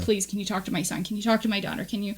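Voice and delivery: quietly plead, as if retelling someone's cry for help; understated, soft begging; retold tearful pleading. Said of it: "they're crying like".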